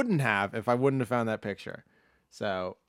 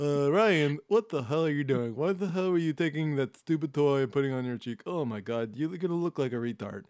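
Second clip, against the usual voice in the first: impersonating Jeffrey; 2 semitones higher than usual. Retold or imitated. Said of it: "that was Jeffrey saying that".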